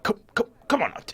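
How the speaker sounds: high coaxing call; sing-song coax to come out. Acted. Host coaxes halflings.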